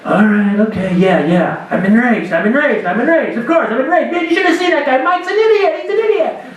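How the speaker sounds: acknowledging rage. Shown as a demonstration. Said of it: "begin to recognize what you're feeling".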